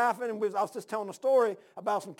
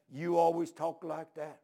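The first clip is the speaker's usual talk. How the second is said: slow, lowered, reproachful delivery; disapproving old preacher; 4 semitones lower, 4 dB quieter, slower than usual. Retold or imitated. Old preacher reproving the visitor at table, slow disapproval. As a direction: draw out the reproach, low and measured.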